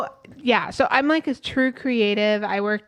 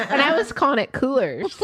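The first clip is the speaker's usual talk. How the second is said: laughing while telling; 5 semitones higher than usual. Real, not acted.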